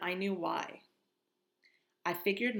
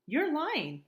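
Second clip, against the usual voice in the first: accusing; 10 semitones higher, 6 dB louder than usual. Acted. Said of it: "I said".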